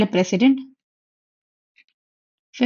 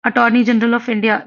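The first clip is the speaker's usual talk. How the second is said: Attorney General of India said slowly, every word clear; slow dictation of Attorney General of India; much slower than usual. Shown as a demonstration. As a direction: spell out the name slowly for students. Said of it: "सुना है ना आपने?".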